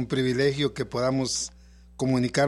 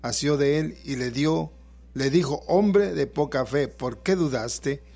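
scripture reading. Acted. Pastor reads Mateo 14 aloud.

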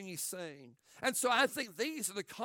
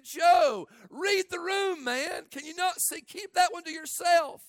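higher, louder exasperated warning; exasperated shout; 9 semitones higher, 9 dB louder, slower than usual. Acted. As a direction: yell at him to read the room. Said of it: "And again, I'm saying".

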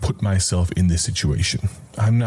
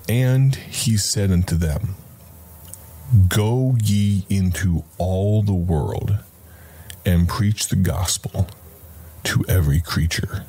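solemn reading. Shown as a demonstration. Preacher reading the verse aloud to listeners. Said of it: "think about tone of voice".

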